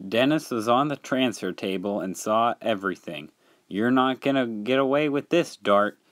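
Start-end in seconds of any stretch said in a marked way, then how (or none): 3.7-6.0 higher-pitched, restrained call; mild yell. Acted. Dennis catching Dart in the act, mildly yelling. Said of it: "he yelled".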